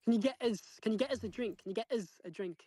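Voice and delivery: "us" said as a weak, buzzing "uz"; northern "us". Shown as a demonstration. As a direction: shrink "us" to a quick "uz". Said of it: "It's not us. It's us".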